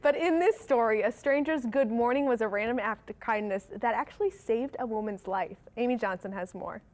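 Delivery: friendly anchor introducing a story; news read. Acted. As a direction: lead viewers into a feel-good report.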